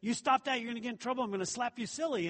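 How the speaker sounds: imitating a heated mother's warning; heated mom scolding. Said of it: "She used to get a little heated with us".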